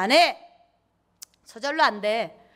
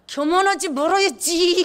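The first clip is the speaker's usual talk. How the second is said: mock pious resolve; 7 semitones higher than usual. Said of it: "교만하지 말라 그러면".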